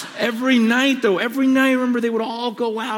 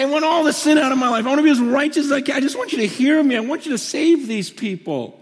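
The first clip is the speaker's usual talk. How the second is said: urgent retold prayer, raised pitch; begging God; 4 semitones higher, faster than usual. Young believer asking God to hear him, pleading re-enactment. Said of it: "just weeping and just begging God".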